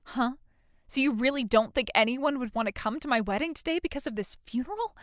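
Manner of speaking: ordinary talk, nothing marked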